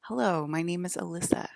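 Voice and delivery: lightly put-on normal-person introduction; Alyssa voice. Shown as a demonstration. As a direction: practise introducing yourself in a careful ordinary voice. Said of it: "can't even talk like a normal person".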